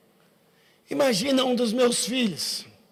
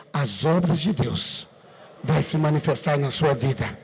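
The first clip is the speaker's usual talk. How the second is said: solemn declaration; 8 semitones lower, slower than usual. Shown as a demonstration. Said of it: "diga pra ela".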